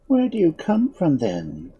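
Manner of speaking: high-pitched question, dropping at the end; curious. A narrator's reading. Unseen woman questioning the visitors, curious. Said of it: "in a curious tone".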